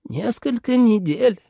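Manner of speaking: lightly voiced old servant, slow; a hint of an old servant, unhurried; старый слуга. A narrator's reading. (лёгкий голос старого слуги)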